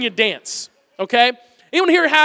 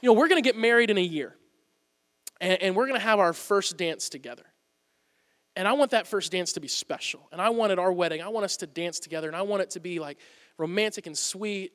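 tender wish; 3 semitones lower, 6 dB quieter than usual. Retold or imitated. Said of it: "And she said".

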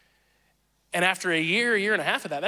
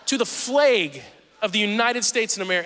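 put-on Northern accent; 3 semitones higher than usual. PA announcer reciting the pledge to a classroom, imitated Northern accent. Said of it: "this person over the speaker system say".

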